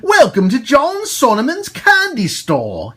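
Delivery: the man. Acted. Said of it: "he said".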